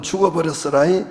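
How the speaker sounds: lightly imitated Jeolla dialect ending; 전라도 사투리 흉내. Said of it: "전라도는".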